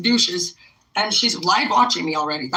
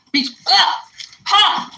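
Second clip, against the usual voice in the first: loud high laugh bursting out; burst of laughter; 10 semitones higher, 4 dB louder, much slower than usual. Real, not acted. Vlogger breaking into a loud laugh at her chat. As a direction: laugh it off loudly.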